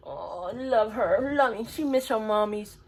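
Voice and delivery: slow, tender cooing; drawn-out coo while cuddling the dog. Real, not acted. Cuddling her dog, she coos slowly and tenderly.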